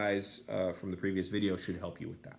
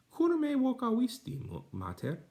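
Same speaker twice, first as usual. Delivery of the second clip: lightly voiced girl. Daughter asks her mother.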